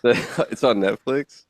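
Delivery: slow disbelieving question rising at the end; surprised. Real, not acted. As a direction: ask it in real disbelief. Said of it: "Can you believe that?".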